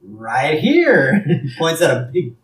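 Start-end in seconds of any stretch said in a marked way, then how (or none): 0.0-1.2 lightly put-on shop clerk; louder, punched-up character reply; acted salesman reply. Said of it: "He's like".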